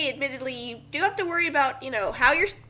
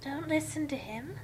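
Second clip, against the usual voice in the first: drowsy, self-righteous; 8 dB quieter than usual. Acted. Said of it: "Commented a drowsy voice self-righteously".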